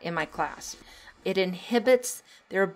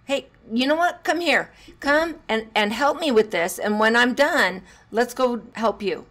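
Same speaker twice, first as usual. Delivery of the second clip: much higher, louder, bright invitation to help; inviting parent; 4 semitones higher, 4 dB louder than usual. Retold or imitated. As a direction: call the child over cheerfully.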